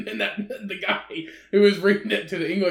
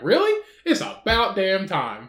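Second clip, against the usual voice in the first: mock surprise. Telling coworker's news, mock surprised then dry. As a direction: retell your fake shock. Mock reaction to Queen's death.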